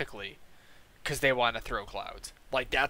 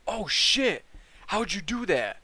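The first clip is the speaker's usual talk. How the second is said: high-pitched imitation of an astonished guy; mock amazement; 7 semitones higher, 3 dB louder than usual. Newbie to the guy who cranked his mod, amazed. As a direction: play the wowed newbie, voice jumping up. Retelling vaper's amazed reaction.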